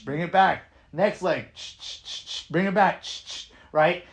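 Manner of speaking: upbeat class cues, called out; dance instructor cueing. Shown as a demonstration. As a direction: lead a class through moves.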